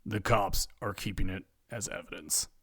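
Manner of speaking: low, soft, dejected; sunken, downcast reply; defeated. A narrator's reading. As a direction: admit defeat quietly. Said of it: "Ed hangs his head in defeat".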